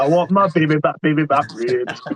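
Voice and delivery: lightly put-on Fat Bastard voice, slowing on the ribs; half-sung, hammy quote of the ribs line; Fat Bastard impression. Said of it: "Fat Bastard is his best".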